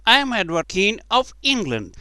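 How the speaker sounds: put-on high, loud voice of a boy king; kingly declaration. A narrator's reading. Boy king announces himself to beggars, high proclamation.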